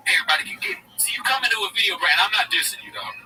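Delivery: lightly voiced bro giving advice; Schultz impression. Mimicking a podcaster lecturing fans, lightly voiced bro. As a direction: preach code switching like a hustle guru. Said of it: "Schultz is his character".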